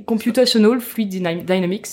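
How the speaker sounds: put-on "Computational Fluid Dynamics" in a half-hearted English accent, stumbling on "Dyna-"; a playful try at an English accent for "Computational Fluid Dynamics"; mock English accent. Host spells out CFD to the hosts in a mock English accent. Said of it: "je vais prendre mon plus bel accent anglais".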